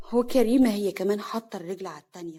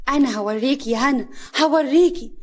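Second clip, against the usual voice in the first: louder, higher repeated threat; angry threat; 3 semitones higher, 5 dB louder than usual. Acted. Sister-in-law vowing revenge on Hana, threatening. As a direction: threaten her, building.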